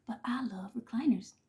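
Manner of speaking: whispered, unvoiced love confession. Real, not acted. Whispering to viewers how much she loves recliners. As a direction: breathe it like a secret.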